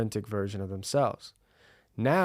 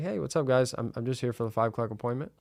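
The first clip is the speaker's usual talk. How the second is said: calm, relaxed; 3 dB quieter, faster than usual. Shown as a demonstration. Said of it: "Do you see how calm and relaxed I am?".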